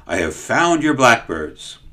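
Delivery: mildly excited call across the kitchen; calling excitedly. Acted. Servant calls the baker across the kitchen, excited. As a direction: call out, a bit eager. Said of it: "the man called excitedly".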